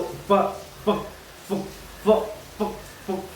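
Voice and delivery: short unvoiced bursts of फ; फ said alone, short and airy; isolated nukta sound. Shown as a demonstration. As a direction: puff out फ as a brief voiceless sound. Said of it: "गले में आवाज".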